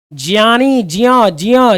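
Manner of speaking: ज्ञानी as "jiyani", ज्ञ as "jiya"; correct pronunciation demo. Shown as a demonstration. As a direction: glide from j into "iya" in ज्ञ. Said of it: "ज और इया से मिलकर बनता है".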